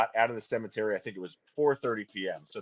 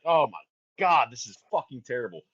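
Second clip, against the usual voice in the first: retold dismay; 4 dB louder than usual. Retold dismay at chaotic shoot.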